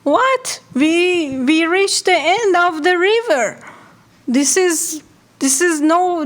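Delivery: a small fish crying out in alarm; alarmed high cry. Acted. Little fish panics to Blackfish at the dam, high alarmed cry. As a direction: panicky high-pitched fish voice, words rushing. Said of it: "little yellow fish screamed again".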